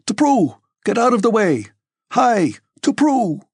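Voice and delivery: high, ringing driver's calls; shouting. A narrator's reading. Balaga driving the troika, shouting people out of the way. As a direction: shout to clear the road. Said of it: "The shouting of Balaga and of the sturdy young fellow".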